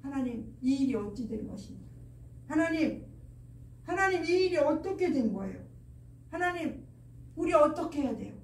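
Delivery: acted appeal to God, halting between phrases; pleading prayer. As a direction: voice a helpless prayer. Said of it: "하나님 앞에 호소를 하는 거죠".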